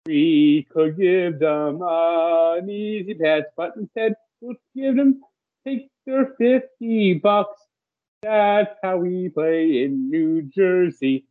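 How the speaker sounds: slow, gloating official voice; smug Turnpike official. Pretend. Mocking New Jersey Turnpike collecting tourist money, slow gloating. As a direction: play the greedy toll authority, savoring each word. Voicing the greedy Turnpike authority.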